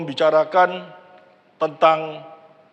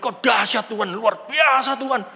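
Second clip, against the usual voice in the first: sincere praise; slower than usual. Shown as a demonstration. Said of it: "Tapi kalau Anda memuji Tuhan".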